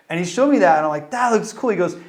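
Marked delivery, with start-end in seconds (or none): 1.1-1.7 put-on awed teen. Awed teen at Disney studio.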